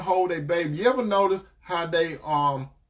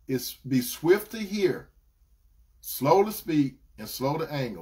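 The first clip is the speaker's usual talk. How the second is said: slow scripture recital. Shown as a demonstration. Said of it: "One more time".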